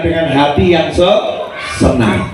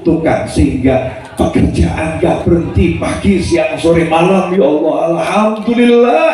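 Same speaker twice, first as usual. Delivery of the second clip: grateful prayer; 4 semitones lower than usual. Shown as a demonstration. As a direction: thank God calmly, counting each blessing. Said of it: "berdoa dengan cara yang lebih bagus".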